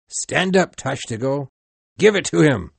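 high, loud order to throw; mate shouting at his harpooneer to throw; shouted command. Acted. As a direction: yell the order to strike.

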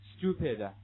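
"stupid" with tu as chu; same sound change. Shown as a demonstration. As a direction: model "stupid" as s-chu-pid. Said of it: "一样，有另外一个单词".

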